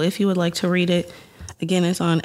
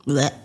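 disgusted by taste; 3 semitones lower than usual. Real, not acted. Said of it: "no shade to crumble cookies".

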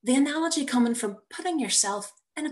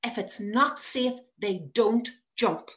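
higher, strained reassuring voice; strained high reassurance; forced calm; 6 semitones higher than usual. Acted. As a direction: keep falsetto calm for the child. Mother forcing calm.

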